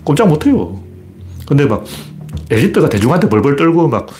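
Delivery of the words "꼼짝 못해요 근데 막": ordinary talk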